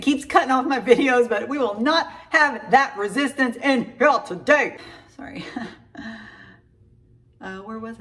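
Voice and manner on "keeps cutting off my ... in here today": fired up. Real, not acted. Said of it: "rebuking the devil".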